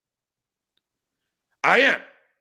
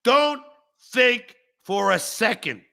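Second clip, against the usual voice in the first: angry; 5 semitones higher than usual. Real, not acted. Furious rant at a viewer.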